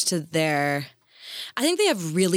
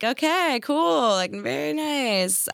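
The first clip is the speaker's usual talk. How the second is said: humouring politeness; 6 semitones higher, slower than usual. Retold or imitated. Politely humouring the magician's tricks.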